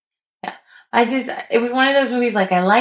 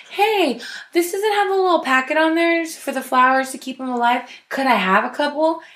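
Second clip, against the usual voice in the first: polite customer voice; 6 semitones higher than usual. Retold or imitated. Voicing a polite request at shop.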